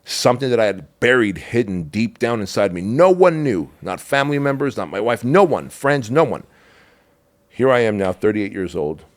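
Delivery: raw, rising confession; emotional outburst. Real, not acted. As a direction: let the buried secret burst out.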